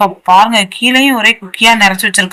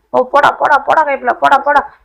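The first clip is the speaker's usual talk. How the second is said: higher, eager cheering; excited urging; 6 semitones higher than usual. Real, not acted. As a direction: cheer on the final push. Near the finish.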